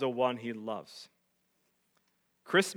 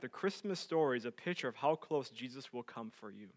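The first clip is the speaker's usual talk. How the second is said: quieter and more intimate the second time; softer repeat; 6 dB quieter than usual. Shown as a demonstration. Pastor repeating the line softly to the congregation. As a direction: lean in and say it again, gently. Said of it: "Let me repeat that".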